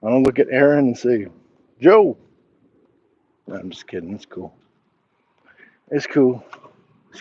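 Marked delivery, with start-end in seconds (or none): 1.8-2.2 high, loud joking shout; mock call-out. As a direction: blurt the name out loud and high, teasing. Jokingly calls a viewer another name.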